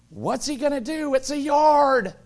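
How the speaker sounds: hammed-up unconcerned dad; mock dismissive. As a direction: brush it off, it's just a yard. Dismissive inner reply.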